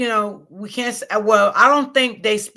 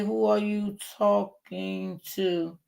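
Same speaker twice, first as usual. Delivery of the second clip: slow, mocking read of the viewer's words; mocking a viewer's rude comment, slow; reading a chat comment; 5 dB quieter, much slower than usual. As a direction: drag the commenter's question out slowly, mocking it. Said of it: "Barbara say".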